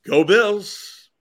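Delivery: upbeat Go Bills cheer. Shown as a demonstration. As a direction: say it like a fan. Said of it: "All right, we're ready".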